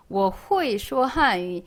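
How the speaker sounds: slow 我会说汉语, 会 misread as "hu-i"; 会 with u straight to i, no e; beginner's mistake. Retold or imitated. Teacher imitating beginners' wrong reading, beginner's mistake. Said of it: "아닙니다".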